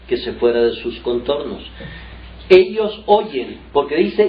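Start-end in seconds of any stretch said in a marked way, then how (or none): 2.5-3.6 "Ellos oyen" slow, louder and higher; emphatic slow stress. Acted. Preacher drives home that they hear, slow and loud. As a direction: hammer "Ellos oyen" slowly.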